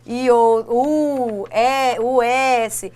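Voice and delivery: "E o U" and "o S" spelled out very slowly; slow letter list. Shown as a demonstration. Teacher listing letter endings for students. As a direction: stretch each letter. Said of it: "terminadas em R".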